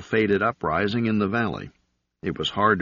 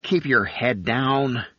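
growled order; 5 semitones higher, slower than usual. A narrator's reading. Fibbin orders Galet to stay hidden, growling. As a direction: growl it slowly as a warning. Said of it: "Fibbin growled".

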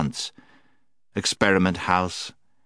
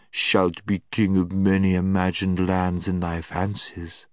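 soothing. Acted. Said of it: "in a soothing voice".

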